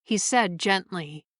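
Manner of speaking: measured storyteller reading; story narration. A narrator's reading. Narrator reading a short story to listeners, measured storytelling. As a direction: read the tale aloud, evenly.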